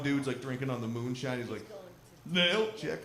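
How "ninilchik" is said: put-on lightly slurred drunk naming Ninilchik. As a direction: say Ninilchik like a mildly drunk explorer. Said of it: "only say it right if you're fucking hammered".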